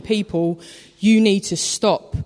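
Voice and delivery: firm telling-off. Retold or imitated. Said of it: "This is what Moses is doing".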